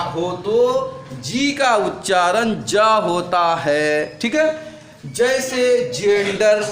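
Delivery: slow, drawn-out words for note-taking; teacher dictating very slowly; slow dictation. Shown as a demonstration. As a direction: dictate the rule word by word, stretching each. Dictates the rule for copying.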